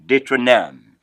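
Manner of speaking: Deuteronome said "day-tro-NOM"; Deuteronome in French, landing on a falling -nom; French pronunciation. Shown as a demonstration. Teacher models the next book, Deuteronome as "day-tro-NOM". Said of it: "that is how that is pronounced".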